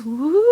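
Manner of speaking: drawn-out "wooo" noise; long playful woo. Pretend. Fan after a DNA theory, playful woo. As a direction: hold a playful, trailing woo.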